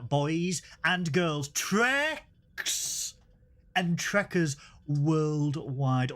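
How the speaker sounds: slow, grand ringmaster greeting; showman welcome. Pretend. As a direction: welcome everyone like a circus ringmaster.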